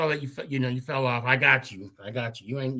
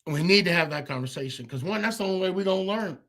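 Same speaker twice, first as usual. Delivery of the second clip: hiccups; 5 semitones higher than usual. Real, not acted. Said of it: "I don't know why I got the hiccups".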